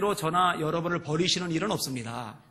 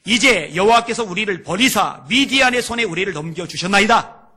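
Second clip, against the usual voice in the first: lightly acted scriptural complaint, building louder; Gideon; 2 semitones higher, 7 dB louder than usual. Man answering God's messenger with doubt, mildly dramatized declamation. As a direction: declaim a protest to God, rising in force. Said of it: "기드온이 하나님 앞에 이렇게 말을 합니다".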